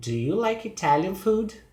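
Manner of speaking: yes-or-no question staying up through "Italian food"; rising question. Shown as a demonstration. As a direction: pitch lifted high toward "food". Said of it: "Start with a yes or no question".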